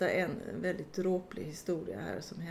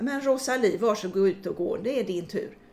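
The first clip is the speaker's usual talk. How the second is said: impatient nurse; 6 dB louder than usual. Retold or imitated. Nurse opening the curtains.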